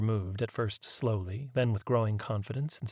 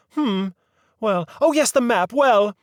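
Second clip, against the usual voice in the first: higher, fussy genteel lady; a proper old lady leading the inquiry; prim lady voice; 11 semitones higher, 10 dB louder than usual. A narrator's reading. Mary Mabel turns to the map.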